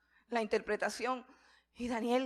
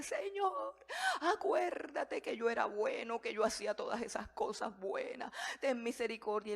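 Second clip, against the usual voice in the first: pleading prayer. Retold or imitated. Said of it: "y empezó a llorar y a decirle".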